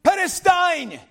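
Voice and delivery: high, loud barked Perestine; father stopping the boys' shenanigans, commanding shout; commanding Ukrainian stop. Retold or imitated. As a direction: snap it like a father halting the kids. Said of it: "In Ukrainian".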